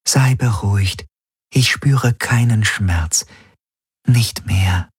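höher, langsam, fremd klingende Maschinenstimme; neue KI-Stimme. Acted. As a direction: ruhig beruhigend, wie eine fremde Wesenheit. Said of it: "an ihre neue Stimme gewöhnen". (fremde, hohe KI-Stimme, langsam)

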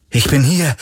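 calling to be heard. A narrator's reading. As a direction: hail someone who may not hear. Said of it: "rief er wieder".

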